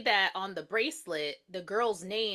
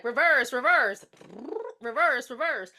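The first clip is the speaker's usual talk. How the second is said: louder, insistent reverse calls; urgent repeated call; 5 dB louder than usual. Pretend. Imagining telling the driver to back up. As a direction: shout it like panicking at the wheel. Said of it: "I would have been like".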